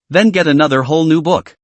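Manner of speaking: a slightly hoarse, dry voice. Acted. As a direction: speak with a touch of hoarseness. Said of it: "said with a somewhat hoarse voice".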